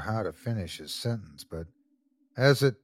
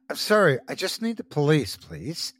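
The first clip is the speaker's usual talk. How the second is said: polite; 4 semitones higher than usual. Acted. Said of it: "as politely as he could".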